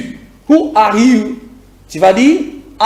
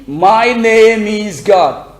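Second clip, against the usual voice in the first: slow model answer; much slower than usual. Shown as a demonstration. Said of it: "Faut dire".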